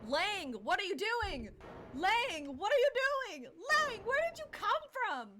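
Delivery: high, loud cries of disbelief; startled, high-pitched outburst; alarmed shouting. Acted. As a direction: shout in shock at a sudden intruder. Judge shouts at sudden intruder.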